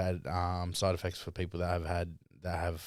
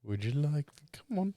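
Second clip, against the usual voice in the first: mock impatient teasing; 8 semitones higher than usual. Real, not acted. Teasing partner with the jar.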